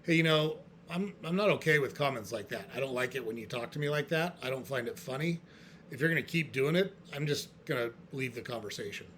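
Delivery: calm, matter-of-fact boundary setting; calmly. Shown as a demonstration. To a relative making sarcastic comments, calmly. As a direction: state the boundary calmly, without raising a fight. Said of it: "Another way to handle it is to calmly say".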